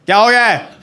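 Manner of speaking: a hammed-up gentle papa; dad soothing his son, tender in mock. Dad coming over lovingly to his sulking son, mock tender. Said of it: "प्यार से बोला उन्होंने".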